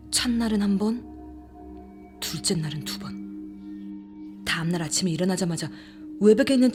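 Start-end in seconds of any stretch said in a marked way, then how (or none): 2.2-4.4 hushed, slow, drawn-out suspense; 숨죽인 내레이션. A narrator's reading. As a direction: let the words sink low and soft. Suspenseful horror narration. (낮고 느리게 숨죽여)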